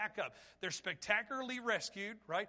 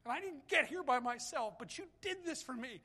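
grateful prayer; 5 semitones higher than usual. Retold or imitated. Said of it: "He's out there saying".

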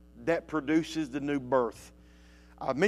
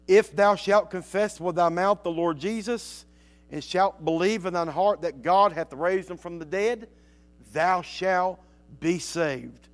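preacher reads the verse to the congregation, solemn and measured; scripture reading. Acted. Reads Romans verse aloud.

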